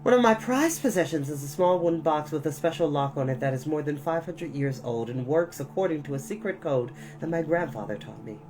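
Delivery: ordinary delivery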